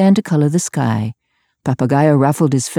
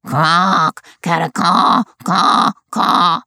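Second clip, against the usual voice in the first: parrot screech; 3 semitones higher, slower than usual. A narrator's reading. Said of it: "began to screech".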